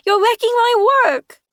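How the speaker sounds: put-on high loud wail, child's voice; tearful child. Sam wailing at Magni, high tearful child voice. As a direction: protest through tears. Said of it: "Sam said tearfully".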